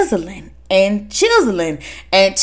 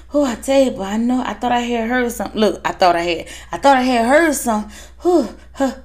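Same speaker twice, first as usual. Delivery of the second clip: fretting brother; 4 dB quieter, faster than usual. Retold or imitated.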